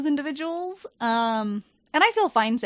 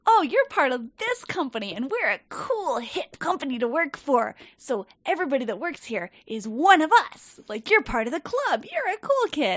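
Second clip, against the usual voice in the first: bright, higher sales-pitch voice; mock corporate cheer; 4 semitones higher than usual. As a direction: sell the company like a cult recruiter. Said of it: "very cult mentality".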